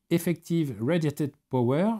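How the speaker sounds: English words in a thick French accent. Real, not acted. Teacher reads English acronym to class, heavy French accent. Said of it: "Désolé pour mon accent pitoyable".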